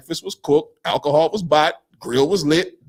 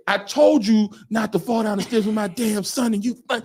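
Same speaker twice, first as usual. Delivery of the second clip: mock angry scolding; 4 semitones higher than usual. Retold uncle quarrel, challenge to fight.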